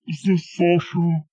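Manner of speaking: fuller-voiced question; firmer question. Rehearsing a fake caller, firmer second try. Repeats the rehearsed greeting more forcefully.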